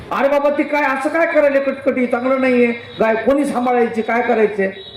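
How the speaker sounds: high-pitched, fed-up holy man; exasperated old sadhu. Retold or imitated. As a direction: protest it like a weary hermit burdened again. Sadhu exasperated at gift cow.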